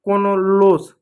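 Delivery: कोनोलोस read letter by letter, the wrong way; wrong pronunciation. Shown as a demonstration. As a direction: say कोनोलोस as a spelling reading. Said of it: "गलत है".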